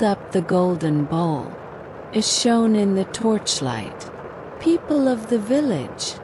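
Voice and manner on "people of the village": crying out. Acted. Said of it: "he cried out".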